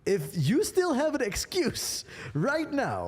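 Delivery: high, excited rallying tone; a fired-up pep talk to listeners; hyped-up. Real, not acted. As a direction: hype the audience up. Hyping up guest.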